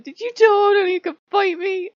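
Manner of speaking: loud high indignant demand; loud affronted question; indignant god. Retold or imitated. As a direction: demand an answer as the angry god. Voicing an annoyed god.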